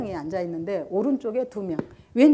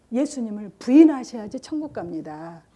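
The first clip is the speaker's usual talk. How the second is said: gentle coaxing. Retold or imitated. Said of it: "그 착한 얼굴로".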